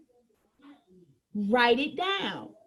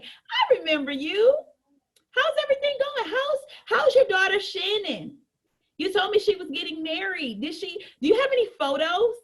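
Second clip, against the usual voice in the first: friendly catch-up; 4 semitones higher than usual. Acted. Acts warm follow-up with customer.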